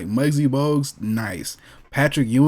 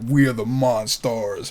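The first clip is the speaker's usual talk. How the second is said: Monstar growl; 3 semitones lower, slower than usual. Retold or imitated. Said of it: "It was like".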